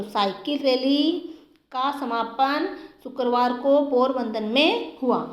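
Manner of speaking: slow, word by word; slow dictation. Shown as a demonstration. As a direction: dictate it slowly to students. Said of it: "तो यहाँ क्या आएगा?".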